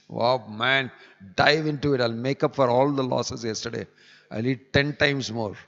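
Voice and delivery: gobble it up with glee; a hungry man diving into a feast; greedy glee. Pretend. Voicing a greedy fast-breaker.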